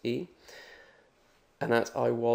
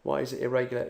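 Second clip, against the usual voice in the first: imitated student. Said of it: "you're probably looking at that and going".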